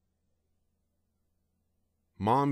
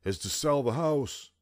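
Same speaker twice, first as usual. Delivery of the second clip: joking dad; 6 semitones higher than usual. A narrator's reading. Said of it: "he joked to Mom".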